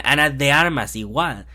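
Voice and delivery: slipping into Spanish pronunciation; natural Spanish-accented delivery. Real, not acted. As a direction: let your Spanish slip out on the words. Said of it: "my Spanish is coming out".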